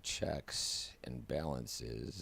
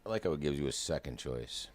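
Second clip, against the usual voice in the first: louder, sarcastic mock praise; 3 semitones higher, 5 dB louder, faster than usual. Real, not acted. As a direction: pretend to like it, with sarcasm. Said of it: "That's sarcasm".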